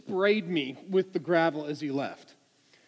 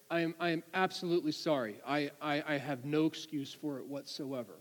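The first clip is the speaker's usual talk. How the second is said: softer, humbled admission of fault; contrite apology; 3 semitones lower, 8 dB quieter than usual. Retold or imitated. Driver admitting fault to the trooper, contrite. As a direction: act out a driver with no defense.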